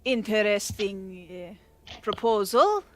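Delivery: a hint of a snooty noble, slow and measured. Steward questioning the envoy, lightly snooty and slow. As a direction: drawl it out like a haughty courtier. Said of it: "he kinda looks at you and says".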